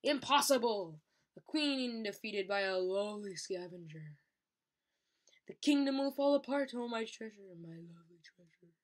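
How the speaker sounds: mock lament, loud then fading; hammed-up dying queen. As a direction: overplay a defeated queen's despair.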